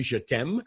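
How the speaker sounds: "je t'aime" said in French, zhuh tem; "je t'aime" in plain French, zhuh tem; French pronunciation. Shown as a demonstration. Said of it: "you've heard the expression".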